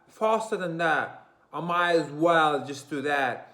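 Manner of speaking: put-on high, loud roadman London accent; cheap English accent. Showing viewers the cheap English accent, loud and high. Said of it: "the cheap English accent is like this".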